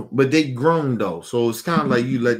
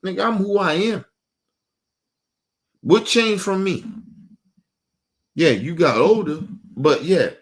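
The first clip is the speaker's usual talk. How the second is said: raised, insistent demand for respect; indignant outburst; 5 semitones higher than usual. Real, not acted. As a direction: hammer each question at them.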